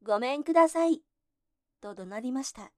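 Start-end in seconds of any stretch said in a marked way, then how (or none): 0.0-1.0 loud, high and fast yell; small voice straining to be heard at the door; louder shout. A narrator's reading. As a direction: shout it even harder this time. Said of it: "今度は一層大きな声を出して".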